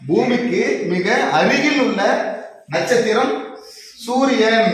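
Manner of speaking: loud teacher confirming the answer; emphatic announcement. Acted. Teacher proclaims the correct answer. (சத்தமாக அறிவிக்கும் ஆசிரியர் குரல்)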